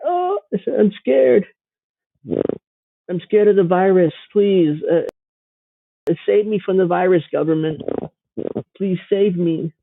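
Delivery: high, whiny mock-frightened pleading; mock scared whimper. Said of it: "They're scared to death of covid nineteen".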